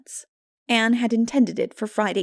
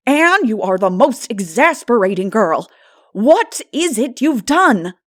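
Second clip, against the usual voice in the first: put-on louder, slow, exasperated older woman; 3 semitones higher, 9 dB louder, slower than usual. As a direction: demand the truth wearily. Marilla exasperated.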